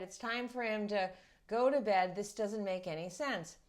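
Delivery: imitating a fed-up parent who can't follow the logic; frustrated father. Retelling the father's rant about his son and the grapes, mock frustrated building up. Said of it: "the father is so frustrated".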